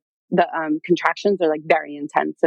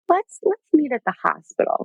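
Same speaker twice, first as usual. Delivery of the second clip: light, higher-pitched calm suggestion; unruffled, higher-voiced retelling of the doula; calm doula, imitated; 8 semitones higher than usual. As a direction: imitate someone gently keeping things calm. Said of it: "Like, just very calmly".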